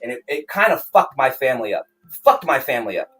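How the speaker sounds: pressed and emphatic, venting about family; bitter real anger. Real, not acted. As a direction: stress each repeated phrase in frustration. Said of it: "it really pisses me off".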